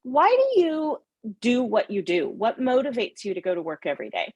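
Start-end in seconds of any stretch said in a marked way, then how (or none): none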